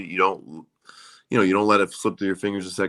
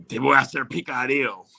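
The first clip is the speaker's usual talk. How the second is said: bad-accent Spanish threat; 4 semitones higher than usual. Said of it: "I said it with a really bad accent".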